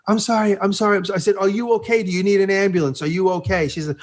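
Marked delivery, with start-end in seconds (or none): 0.1-1.1 higher-pitched repeated apology; apologetic girl. Retold or imitated. Girl to the rider who hit her, retold apology. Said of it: "And she goes". 1.4-3.7 high, insistent check-in; retold concern. Rider to the girl he hit, insistent concern.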